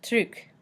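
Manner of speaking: French truc with the final C sounded; French pronunciation. Shown as a demonstration. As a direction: say truc, ending on a crisp k. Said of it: "some examples are".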